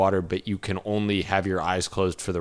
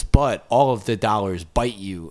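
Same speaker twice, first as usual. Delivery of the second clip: laughing. Real, not acted. Absurd hypothetical, laughing through it.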